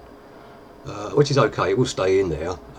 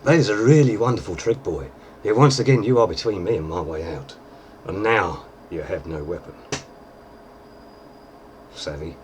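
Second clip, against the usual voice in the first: put-on swagger through it like the drunk pirate captain; Jack Sparrow impression; 3 dB louder than usual. Shown as a demonstration. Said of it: "so I'm still practicing the voice".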